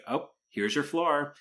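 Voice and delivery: light, high, drawn-out polite deflection; gentle brush-off. Retold or imitated. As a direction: imitate a kindly, gentle let-down. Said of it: "she just very gently is like".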